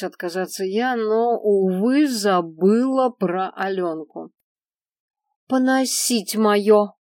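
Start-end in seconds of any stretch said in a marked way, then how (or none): 5.5-6.9 put-on high, loud, slow childish demand; demanding little girl. A narrator's reading. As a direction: whine it like a spoiled child. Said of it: "потребовала эта беда ходячая".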